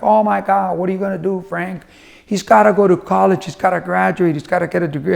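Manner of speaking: imitating mild parental worry; worried wife. Wife worries son is leaving college, worried. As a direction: fret lightly over the son's future. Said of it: "did get a little worried".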